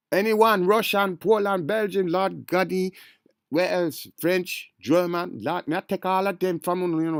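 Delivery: high, loud, braggy list; excited boasting. Real, not acted. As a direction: rattle off the nations in hyped glee.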